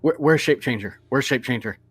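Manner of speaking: scared, disbelieving. Acted. Untied gnome king asking after the monster, mildly scared. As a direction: stammer it out, not quite believing. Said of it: "looking still scared, like he doesn't believe".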